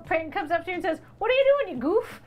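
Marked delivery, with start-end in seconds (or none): 1.2-2.2 loud, raised confrontational challenge; big truck guy. Acted. Big guy with a truck comes up to you, confrontational. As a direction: act out a big guy picking a fight. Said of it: "if it's a big guy with a truck".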